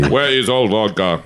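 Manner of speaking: lightly voiced mock Russian accent; a hint of a comic Russian accent. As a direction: toss off the Russian vodka line. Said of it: "man, my Russian accent".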